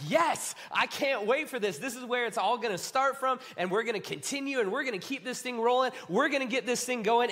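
eager, quickening rush of plans; mildly excited disciple, raring to go; fired up. Acted. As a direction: let the plans tumble out. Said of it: "And you're fired up".

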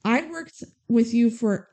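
acting out hurt disbelief, slowing down; indignant retelling. Rhea confronts Max over the forgotten shout-out, retold indignantly. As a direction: spell out the grievance slowly, as in a retold quarrel.

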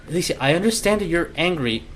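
put-on quick first try at a father's accent; wrong accent for Gabe. Gabe answers his angry daughter, in a mistaken accent. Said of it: "that's not his accent at all".

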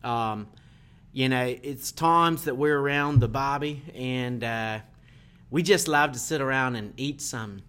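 a light, half-hearted attempt at an Australian accent. Guest asked by the host for an Australian accent, mild and slow. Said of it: "So using an Australian accent".

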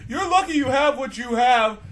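mock a parent lecturing a kid; scolding parent. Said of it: "when they start saying".

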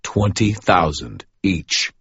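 slow, heavy low voice of a hard man; very deep male voice. A narrator's reading. Deep-voiced man takes the phone and names his price. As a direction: weigh each word like a gruff dealer. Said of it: "a very deep male voice said".

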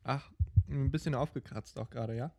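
muffled into a mug; talking into a cup. Real, not acted. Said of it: "Hab schon wieder in die Tasse geredet".

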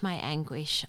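subdued echo of the lament. Acted. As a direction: let "my anguish" fall away after the cry. Lament read from scripture.

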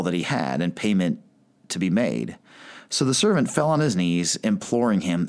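measured Bible reading to the congregation; reading scripture from the pulpit. Acted. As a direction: read the parable aloud with care. Reads the parable aloud.

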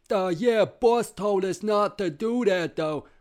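loud, high, dopey and slow; dim-witted henchman. Acted. Ostrich henchman reminding his partner of boss's orders, dopey voice. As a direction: play the dumb cartoon goon. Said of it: "They're like one of those".

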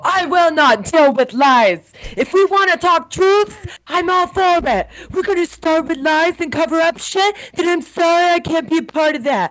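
high-pitched, forceful ultimatum; worked-up acted tirade; heated declaration. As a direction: lay down the law to the table. Acts out Lisa's warning to table.

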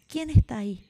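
grito fuerte hacia la montaña; niño gritando. A narrator's reading. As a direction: llamar a voces, con curiosidad. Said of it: "el niño grita". (grito de niño que pregunta quién está)

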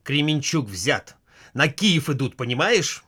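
mildly angry, slow announcement; husband tells wife Kiev is threatened, mildly angry. Acted. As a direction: snap out the bad news, a touch cross. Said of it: "Сердито".

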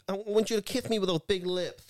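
a hint of a high boxer voice; half-hearted boxer impression; Mike Tyson. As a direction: lightly mimic the young boxer. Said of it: "quite high pitched".

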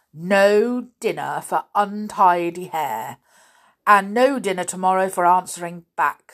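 loud, stern verdict; strict teacher scolding; stern punishment. Acted. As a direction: punish the cheeky boy. Grimm punishes Binky.

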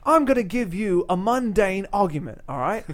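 lightly imitated British talk-show host; James Corden. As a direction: set up the game in a British presenter's accent. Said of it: "in his British accent".

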